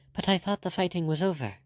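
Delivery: high startled protest; startled, high and unsure. A narrator's reading. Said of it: "pale and startled".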